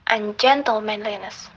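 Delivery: "ungentlemanliness" with GEN stressed, the rest unstressed. Shown as a demonstration. Lecturer showing the rhythmic principle, "ungentlemanliness" stressed on GEN. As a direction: hit GEN in "ungentlemanliness", then four unstressed syllables. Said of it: "after the stress gen".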